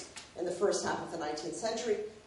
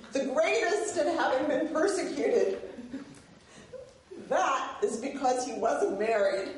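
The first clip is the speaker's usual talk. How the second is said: higher, emphatic reading with deliberate pauses; humorous reading aloud; 4 semitones higher than usual. Acted. Lecturer reads a favorite funny passage to an audience, humorous emphatic reading. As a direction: read out a witty passage, savoring each phrase.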